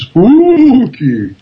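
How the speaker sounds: drawn-out, ghostly "spooky"; playful haunted-house delivery; mock spooky. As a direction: stretch "spooky" out slowly and swoop up high. Playing at being spooky.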